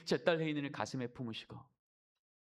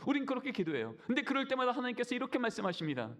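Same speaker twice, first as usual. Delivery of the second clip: higher, louder impassioned preaching; full-force preaching; 8 semitones higher, 3 dB louder than usual. Real, not acted. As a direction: drive the point home to the congregation. Preaching climax, raised voice. (목사가 회중에게 외치듯 힘 있게 설교)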